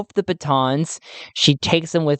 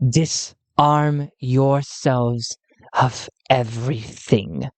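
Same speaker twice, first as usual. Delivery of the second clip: slow cold command; 2 semitones lower, much slower than usual. Acted. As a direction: order them, slow and cold. Emelina gives an order.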